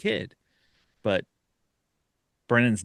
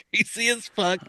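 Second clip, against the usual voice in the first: Greasy said much higher, amused; high-pitched repeat; 10 semitones higher than usual. Retold or imitated. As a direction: echo greasy in a high squeaky voice.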